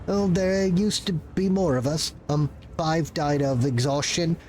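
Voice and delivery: a frazzled little bureaucrat caught off guard; nervous clerk voice. Acted. Clerk role.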